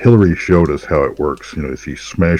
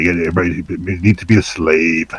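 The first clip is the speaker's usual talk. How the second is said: Machiavellian voice. Pretend. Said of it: "I'm in my Machiavellian voice now".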